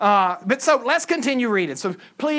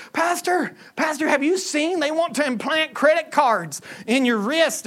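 higher-pitched, anxious imitation; mock worry; 5 semitones higher than usual. Churchgoer alerting pastor to implanted credit cards, mock worry. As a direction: play a fretful churchgoer. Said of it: "why are you worried anyway?".

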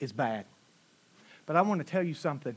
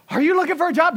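higher and louder, demanding; a worked-up demand; pressing wife; 10 semitones higher, 8 dB louder, faster than usual. Retold or imitated. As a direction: mimic the anxious wife pushing. Wife pressing him, emotions high.

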